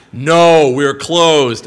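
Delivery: loud acted rebuff; hammed-up shout of refusal; mock shouted refusal. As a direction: imitate a clerk loudly turning someone away. Acted post office turning him away.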